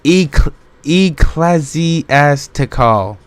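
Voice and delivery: "ecclesiastical" sounded out slowly, syllable by syllable; halting, careful attempt at "ecclesiastical"; sounding it out. Shown as a demonstration. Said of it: "how it's pronounced".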